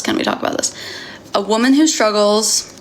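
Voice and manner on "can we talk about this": breathy whisper. Shown as a demonstration. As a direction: whisper the question. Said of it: "repeats the line, last whispered".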